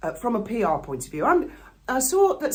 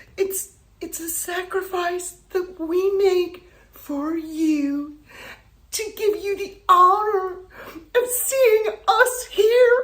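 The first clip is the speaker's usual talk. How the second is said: mocking, high voice with a stretched "you"; 7 semitones higher, 3 dB louder than usual. Parodying a woman's speech from the stage for your listeners: mocking parody of her. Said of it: "there are moments this woman inspires me to do a parody".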